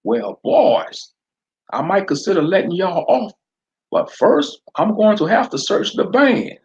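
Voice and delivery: southern sheriff daring Fred to use his eye blaster; southern accent. Acted. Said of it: "Sheriff McClure directed".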